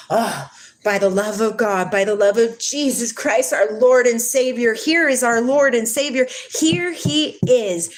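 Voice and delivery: rising fervent proclaiming; mock preacher hype. Mocking deceivers who hail the Savior, fervent build. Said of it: "many will come in his name and say".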